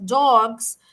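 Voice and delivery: "dogs" said with a New York vowel, drawn out as "dawgs"; New York accent. Real, not acted. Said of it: "pardon my New York accent there by saying dogs".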